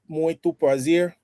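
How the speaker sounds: slow, careful Portuguese phrases; halting learner Portuguese. Shown as a demonstration. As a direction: speak each word slowly for a learner. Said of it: "one more time slowly".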